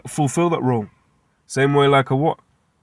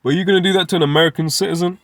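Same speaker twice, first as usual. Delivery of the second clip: mock American accent; 4 semitones higher, faster than usual. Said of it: "horrible accent".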